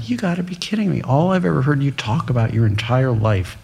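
a mild mock of the uncle's anger; a hint of an exasperated uncle scolding; retold angry uncle. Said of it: "he got even madder at me".

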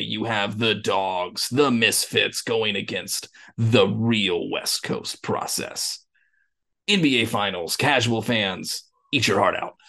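slow hyped-up announcer read. Acted. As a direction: sell the Finals like a ring announcer. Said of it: "I had to dust out the voice for that".

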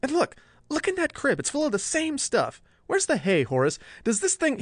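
high, frantic, scared rush; panicked high voice. Acted. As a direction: fear climbing into his voice. Handlon panicking over the mule.

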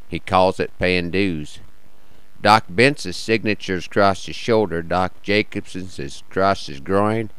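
measured cowboy poetry reading; cowboy poem recital. Acted.

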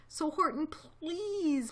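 high-pitched little plea; pleading. A narrator's reading. Mayor asking elephant for help, pleading. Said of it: "pleaded that voice of the mayor".

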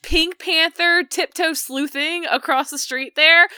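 high, loud teasing rant; excited. Real, not acted. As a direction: tease him, laughing.

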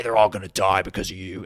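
a hint of British narrator dropping to accusing; lightly voiced British narrator blaming the viewer; British documentary narrator. Mocking documentaries, mild accusing British narrator. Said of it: "in that exquisite British voice".

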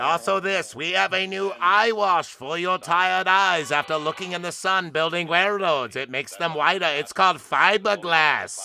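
put-on old radio announcer. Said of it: "Old-timey radio?".

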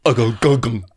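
grunted nonsense mimicking Welsh; mock a Welshman in gibberish; imitated Welsh speaker. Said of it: "What does he sound like?".

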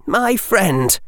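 usual speaking voice

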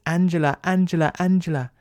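high, frantic repeated plea; begging the name in terror, voice climbing high; panicked pleading. Acted. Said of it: "all she can say is".

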